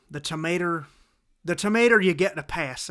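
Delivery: put-on TOMATO as "tomater" in a country-style accent; folksy mock accent, granting a pardon; put-on drawling accent.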